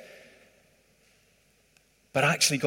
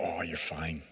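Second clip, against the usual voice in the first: breezy God; 8 semitones lower, 13 dB quieter than usual. Retold or imitated. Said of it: "God's gonna go".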